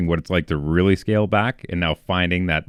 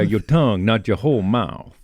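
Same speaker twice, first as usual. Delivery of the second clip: Kentucky accent demo. Shown as a demonstration. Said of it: "a little bit more from Kentucky".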